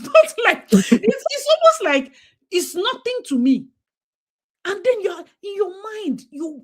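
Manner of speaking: high laughing voice. Real, not acted. Telling the host about dad's rule, laughing high.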